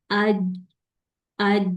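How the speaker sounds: "اج" with the final j stopped dead; "اج" with no release; jeem held shut. Shown as a demonstration. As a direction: close off sound on the j of "اج". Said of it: "آواز کو بند کر دیں".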